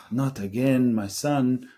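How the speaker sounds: imitating his Greek father's accent, lightly; a mild Greek-accented scolding of his son. Disappointed father to hungover son, light Greek accent. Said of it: "so the accent".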